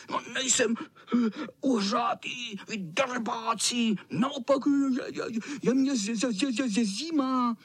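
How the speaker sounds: vysoký kočičí hlas, koktá zimou; zmrzlý kocour. Acted. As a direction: mrznout a vztekat se. (promočený kocour nadává klukům a klepe se)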